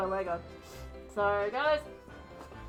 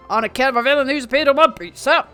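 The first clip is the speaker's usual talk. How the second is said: constable voice; 3 semitones higher, 7 dB louder than usual. Acted. Plays sleepy constable.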